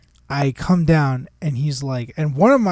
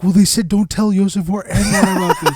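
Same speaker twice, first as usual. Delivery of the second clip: high, loud, through laughter; laughing retelling; 6 semitones higher, 8 dB louder than usual. Retold or imitated. Boss retelling employee's secrecy excuse, laughing. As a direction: barely hold back the laugh while quoting. Retold absurd confession, laughing on it.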